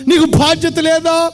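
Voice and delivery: rising, pressing sermon voice; preaching rebuke. Acted. Preacher scolding careless believers, pressing sermon voice. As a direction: preach it hard at the congregation.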